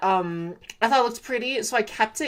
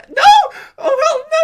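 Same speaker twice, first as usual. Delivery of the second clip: surprised; 11 dB louder than usual. Real, not acted. Villager ignores her.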